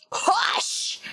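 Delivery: sharp unvoiced hiss of a hush; urgent whispered hush. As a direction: hush the crowd in a harsh whisper. Character hushes a crowd.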